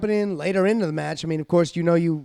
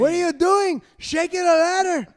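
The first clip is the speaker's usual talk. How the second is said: Eddie impression; 10 semitones higher than usual. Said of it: "quoting Eddie scolding Dom".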